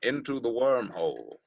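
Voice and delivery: lightly voiced documentary narrator; a hint of a celebrity narrator impression; Morgan Freeman. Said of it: "I'm Morgan Freeman".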